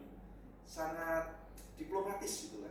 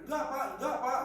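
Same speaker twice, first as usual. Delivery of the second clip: retold pleading cry; 9 semitones higher, 10 dB louder, faster than usual. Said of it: "suaminya teriak-teriak".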